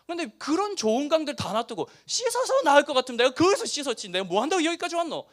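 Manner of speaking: high, heated Busan dialect rant. Retold or imitated. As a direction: fume in Busan dialect as Naaman. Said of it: "흥분하면 제가 부산 사투리를 많이 씁니다". (부산 사투리로 흥분해서)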